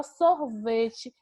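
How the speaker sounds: sorvete said slowly with a lift on the middle syllable ve; slow sorvete, stress on the middle syllable; stressed syllable demonstration. Shown as a demonstration. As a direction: lean on the ve in sorvete, stretching it. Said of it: "Quem é que dá aquela subidinha".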